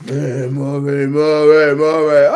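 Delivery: loud call of a name, stretched out. Real, not acted. Preacher calling out to Maury in loud amusement. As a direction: call over to Maury across the room.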